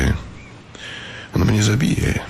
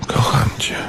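whisper. Acted. Love declaration.

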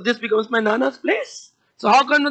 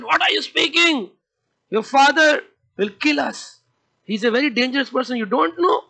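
higher, alarmed teacher voice; a hint of frightened teachers scolding; worried teachers; 3 semitones higher than usual. Teachers warning Prahlad about his father, higher alarmed voice. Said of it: "they said".

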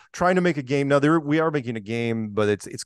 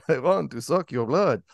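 lightly put-on Transylvanian vampire accent; mock vampire accent; 2 semitones higher than usual. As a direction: do a jokey Transylvanian count. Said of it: "a vampire and Gru".

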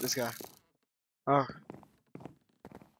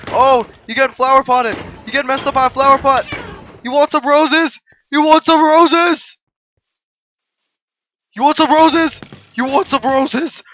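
taunting; 3 semitones higher, 3 dB louder than usual. Real, not acted. Gloating at seeker, repeated taunt.

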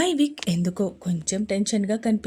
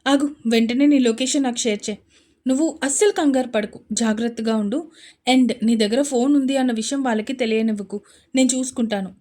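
reassuring; 5 dB louder than usual. Acted. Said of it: "ధైర్యం చెప్తున్నట్టు".

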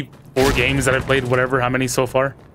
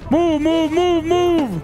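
urgent shouting; much slower than usual. Real, not acted. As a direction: shout them forward fast. Urging team in firefight.

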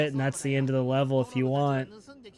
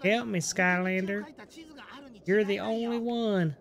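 high, whiny plea for rescue; helpless character voice; 6 semitones higher than usual. Retold or imitated. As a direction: beg the hero like a scared NPC. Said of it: "It's like".

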